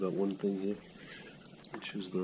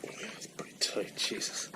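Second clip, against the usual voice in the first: out of breath; 4 semitones higher, slower than usual. Real, not acted. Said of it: "I apologize for my breathing".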